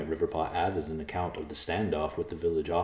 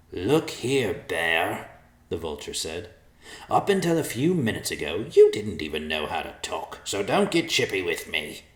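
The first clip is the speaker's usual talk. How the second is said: scolding vulture. Acted. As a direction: put the bear in his place.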